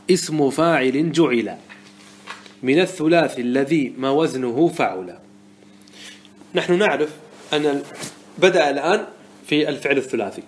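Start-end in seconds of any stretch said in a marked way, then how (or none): 0.1-5.2 slow, measured recitation of a poetic line; reciting the verse. Shown as a demonstration. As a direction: intone the grammar verse slowly, like a teacher reciting. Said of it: "يقول الناظم رحمه الله".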